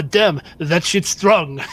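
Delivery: slow, drawn-out "strong" in character. Acted. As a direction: redo it in character, stretching the last words. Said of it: "oh, I'm sorry, I was out of character".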